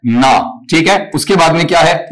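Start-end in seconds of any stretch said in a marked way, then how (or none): 0.1-0.4 ना alone with a long open vowel, lower; broken-up syllable. Shown as a demonstration. Teacher breaking the word for students, isolated syllable. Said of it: "इसका sound यहां से टूटेगा".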